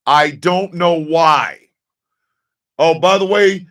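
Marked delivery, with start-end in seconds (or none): 0.1-1.6 slow drawn out. Shown as a demonstration.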